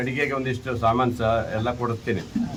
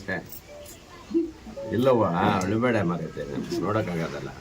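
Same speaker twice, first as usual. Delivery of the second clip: much softer, lower sympathetic murmur; consoling; 9 semitones lower, 6 dB quieter than usual. Real, not acted. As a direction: soothe her gently, voice dropped low. MLA consoling crying old woman. (ಮೃದುವಾಗಿ ಸಮಾಧಾನ ಹೇಳುತ್ತಾ)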